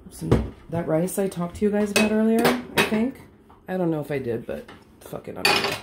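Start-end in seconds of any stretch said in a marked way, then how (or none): 4.5-5.8 1 under-breath aside. Real, not acted. Muttered aside.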